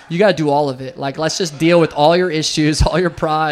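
mock tough program voice. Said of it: "It was like".

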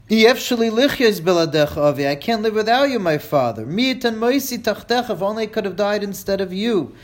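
a grieving daughter begging her dead father, lightly voiced; daughter lamenting.

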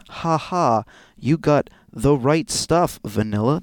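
loud, deliberate letter-reading voice; formal, projected read-aloud; blackmail letter reading. Acted. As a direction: read the threat out in measured, emphatic tones.

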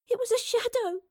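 put-on very high child's voice; small girl, pitched far up; frightened little girl. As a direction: plead like a scared child. Frightened girl explains what she saw.

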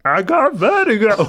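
high, loud mock scream; hammed-up wailing impression; imitated sick woman's voice. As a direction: scream it like a seasick American. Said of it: "I started doing that voice".

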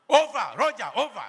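loud, laughing mock radio sign-off; playful shouted over and out; radio call. Soldier radio call in sermon.

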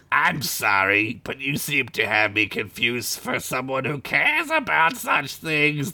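slow, bored spider lady; apathetic. Acted. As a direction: drag the words out, uncaring. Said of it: "the lady said apathetically".

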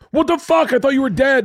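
very high-pitched incredulous cry; shocked outburst. Retold or imitated. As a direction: yelp it in disbelief, pitch shooting up. Acted outburst at dad on phone.

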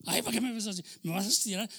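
high-pitched mock protest of a frightened patient; imitated panicky yelling. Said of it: "ya estaba gritando".

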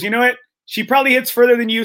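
lightly mocking club fitter; teasing jab. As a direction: needle him playfully. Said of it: "He goes, he goes".

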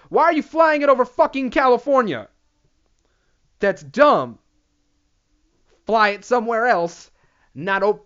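high, loud exasperated yell; loud incredulous rant. Real, not acted. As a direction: shout it in disbelief at the government. Ranting at the government.

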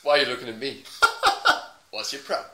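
mock Southern confrontation; Southern US accent. Man challenging a passer-by, mock Southern accent. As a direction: pick a fight in put-on Southern American. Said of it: "Southern American".

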